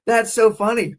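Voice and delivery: high, loud laughing talk; cracking up at the joke. Real, not acted. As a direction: giggle through the words.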